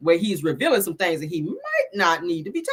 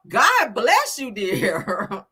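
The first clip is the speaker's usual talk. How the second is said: mock pity; much slower than usual. Real, not acted. Pitying a fruitcake lover.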